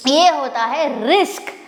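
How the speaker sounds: रिस्क said with s before k, slowly; teacher modelling रिस्क as risk; correct pronunciation. Shown as a demonstration. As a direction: say रिस्क clearly as risk, s then k. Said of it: "इसको हमें ऐसे बोलना है रिस्क".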